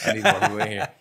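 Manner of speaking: high, loud burst of eagerness; excited exclaim. Retold or imitated. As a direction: belt it out like you're begging for customers.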